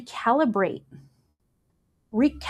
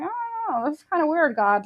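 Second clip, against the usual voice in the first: mock wariness; 5 semitones higher, 3 dB quieter than usual. Believer unwilling to receive from God, mock wary. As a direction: start high and hesitant, politely doubtful.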